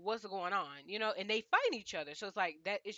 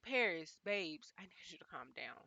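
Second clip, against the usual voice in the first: soothing Paris; 2 semitones lower, 5 dB quieter than usual. Retold or imitated. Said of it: "I was just like".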